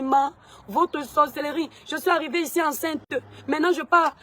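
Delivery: accusation criée, plus aiguë; reproche à sa mère. Retold or imitated. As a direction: accuse sa mère, la voix montant. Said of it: "Je commence à parler comme ça". (fille accusant sa mère de sorcellerie, voix qui monte)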